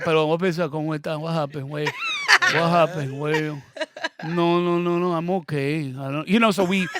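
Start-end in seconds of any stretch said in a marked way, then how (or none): 0.0-3.6 put-on nervous Latino accent. Latino pulled over, nervous exaggerated accent to officer. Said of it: "I don't even talk like that". 4.2-6.3 put-on nervous Latino accent. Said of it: "I don't even talk like that".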